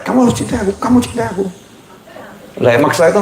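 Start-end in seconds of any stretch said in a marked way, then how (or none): 0.0-1.5 pushy demand. Retold or imitated. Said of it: "Kalau orang maksa orang lain".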